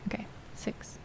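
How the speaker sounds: unvoiced whispered aside. Real, not acted. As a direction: whisper it to yourself. Settles the count, whispering.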